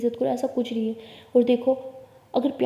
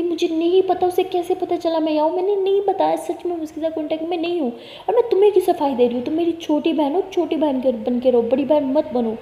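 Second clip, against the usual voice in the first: angry scolding; 5 semitones higher, 4 dB louder than usual. Acted. Elder sister snaps back angrily.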